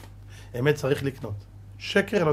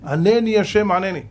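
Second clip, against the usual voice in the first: crying out; 3 semitones higher, 4 dB louder than usual. Acted. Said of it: "ותצעק".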